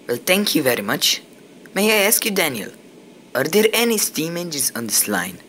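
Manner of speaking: a hint of a Scottish brogue; strong Scottish accent. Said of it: "The newcomer spoke with a strong Scottish accent".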